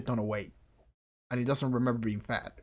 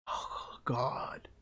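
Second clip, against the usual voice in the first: whispering; 7 dB quieter than usual. Real, not acted. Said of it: "whisper heard".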